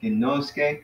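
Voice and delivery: Aratis ginoske said slowly, syllable by syllable; half-speed teacher demo; slow careful model. Shown as a demonstration. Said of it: "'cause the accent's right here".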